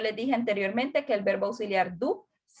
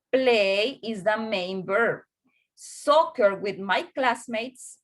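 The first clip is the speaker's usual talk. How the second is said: slow teaching read; much slower than usual. Shown as a demonstration. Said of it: "reading example slowly".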